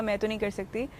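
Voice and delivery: softly, a touch of worry; hushed, losing confidence; retold worried quiet. Young actress telling first-day nerves, mild worried hush. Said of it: "मैं बहुत परेशान थी".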